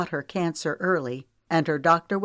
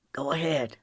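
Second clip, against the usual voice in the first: gentle; 2 semitones lower, 3 dB quieter than usual. A narrator's reading. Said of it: "prompted gently".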